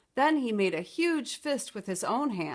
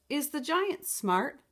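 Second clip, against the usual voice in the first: put-on curious little girl; 5 semitones higher, slower than usual. Beatrice asks her mother.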